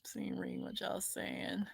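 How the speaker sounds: half-whispered to herself while reading the chat; whispered aside. Real, not acted. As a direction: drop to a breathy whisper.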